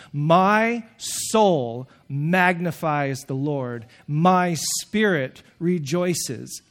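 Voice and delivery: very slow, savoured phrasing; slow reverent quote. Shown as a demonstration. Preacher lingering on Mary's words, slowly. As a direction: linger on each word. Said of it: "quoting Mary's song again".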